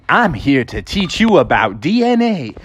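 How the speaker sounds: lightly sing-song cartoon presenter; a hint of an educational mascot, drawn out at the end; lightly voiced science-film host; chirpy Mister DNA.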